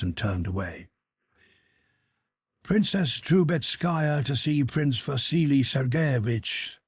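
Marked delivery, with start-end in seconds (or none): 2.6-6.8 called out, slow and raised; calling upstairs. Acted. Hall porter calling to the footman upstairs, raised. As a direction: announce the guest up the stairs. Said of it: "he called to a footman".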